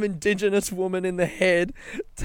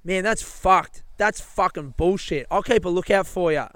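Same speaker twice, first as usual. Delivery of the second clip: mildly indignant, slightly raised sympathetic voice; outraged lady; 4 semitones higher, 3 dB louder than usual. Retold or imitated. Lady hearing his bag was stolen, mock outraged sympathy. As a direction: imitate a stranger outraged on your behalf. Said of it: "she immediately was just like".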